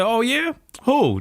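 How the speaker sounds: high-pitched smart-aleck comeback; smart-ass. Retold or imitated. Young man teasing an old lady at the party, smart-ass. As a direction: play it cheeky, pitched well up. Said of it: "Just trying to be a smart ass".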